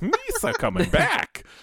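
very high, silly put-on creature voice. Imagining a trailer where the Emperor's evil laugh becomes Jar Jar: Jar Jar Binks voice. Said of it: "you get something along the lines of".

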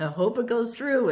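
high, sheepish, hopeful, worried tone.

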